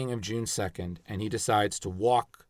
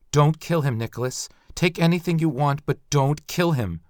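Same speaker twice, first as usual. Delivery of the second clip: pleading; 3 semitones higher, 4 dB louder than usual. Acted. Wife begging for husband's life.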